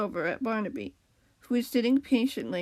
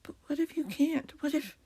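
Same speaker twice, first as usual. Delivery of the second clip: higher worried question, fading out; trailing off; 5 semitones higher than usual. A narrator's reading. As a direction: let the doubt tail away unfinished. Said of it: "the cat trailed off".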